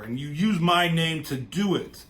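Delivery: furious. Retold or imitated. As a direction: throw the blame back angrily, acted out. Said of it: "And he's fucking pissed".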